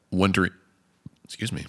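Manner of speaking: talking through hiccups; interrupted by a hiccup. Real, not acted. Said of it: "I've had hiccups all day".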